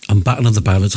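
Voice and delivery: talking round a sweet in the mouth; mouth full. Real, not acted. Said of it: "I've got something in my mouth".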